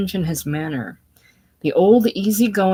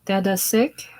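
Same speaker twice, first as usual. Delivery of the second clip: put-on child asking worried; 3 semitones higher than usual. A narrator's reading. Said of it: "pulling at his hand solicitously".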